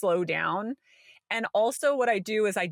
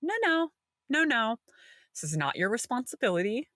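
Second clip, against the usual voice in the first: firm self-correction. Retold or imitated. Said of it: "And I'm like".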